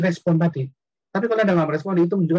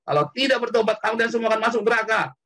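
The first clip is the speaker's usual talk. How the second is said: higher-pitched mock proclamation of repentance; imitated fervent call to repent; retold street preaching; 4 semitones higher than usual. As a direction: recall a teen preaching on the roadside. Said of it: "teriak-teriak".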